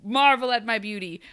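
lightly hammed-up self-praise; mock vain huntsman. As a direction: preen like a vain prince. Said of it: "he was like".

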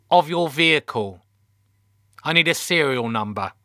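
a hint of officious teenage receptionist; lightly voiced teenage girl. A narrator's reading. Teenage call handler asks the captain for details, lightly voiced girl. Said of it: "who sounded in her teens".

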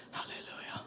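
breathed under the breath; whispered halleluja. Real, not acted. Preacher whispering halleluja to the congregation. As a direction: whisper it to yourself. Aside after sermon call.

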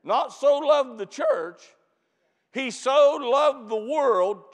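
so hit hard, slow, falling; stress on so. Acted. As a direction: punch the word so. Contrasting church and world.

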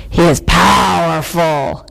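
low, heavy storybook bear; bear's growl. A narrator's reading. Bear answering the robin, low growl. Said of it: "growled the bear".

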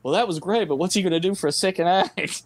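high, shouted heckle with a laugh; mock shout. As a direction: yell it like a cheering crowd. Imagined viewers' shouted reaction.

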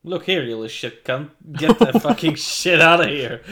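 hostile outburst, played for laughs; mock hostility. Car owner answering a question about his Volvo, mock hostility. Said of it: "what was with the fucking hostility".

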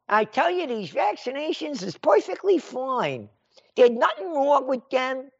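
a hint of a smug health official; mock official. Mocking vaccine pusher.

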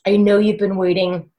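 mildly guilty and gentle; sheepish husband. Retold or imitated. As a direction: imitate a sheepish husband saying sorry. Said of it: "my husband felt so sheepish".

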